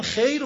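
"خیر" with a full e; wrong closed vowel. Shown as a demonstration. Teacher shows what he avoids, "خیر" too closed. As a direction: say "خیر" as "kheyr", no a left.

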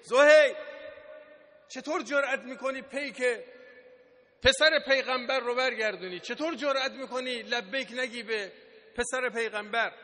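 retold scolding. Zuhayr's wife rebukes him for rejecting the envoy, retold scolding. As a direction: scold indignantly, bursting out on the name. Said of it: "تشر زد به زهیر".

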